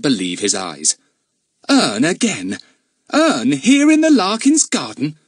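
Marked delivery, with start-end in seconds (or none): 1.7-5.2 loud, high incredulous roar of a policeman. A narrator's reading. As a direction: bellow in disbelief. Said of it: "gave such a roar".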